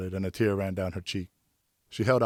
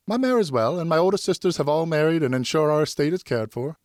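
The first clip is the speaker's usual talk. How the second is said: put-on higher, lighter young lady's voice; Geneviève's voice; 8 semitones higher, 5 dB louder than usual. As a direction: speak as a graceful young noblewoman.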